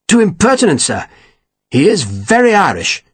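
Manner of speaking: lightly sneering officer; Slingsby's voice. A narrator's reading. Captain disparaging his sergeant, lightly sneering.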